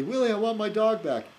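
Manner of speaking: pleading with a hint of a cartoon kid; Bart Simpson. Boy asking Willie for his dog back, lightly imitated cartoon plea. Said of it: "he goes back to Willie".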